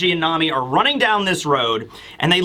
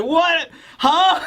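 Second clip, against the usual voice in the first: high-pitched mock bewilderment; acted, incredulous little yelps; stunned disbelief; 10 semitones higher than usual. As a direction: squeak out baffled shock as a character. Old man's stunned reaction, acted.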